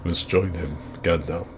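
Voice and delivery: a hint of Saruman, slightly hushed; lightly voiced wizard villain; understated impression of a grand actor; Christopher Lee. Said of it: "You know, my Christopher Lee".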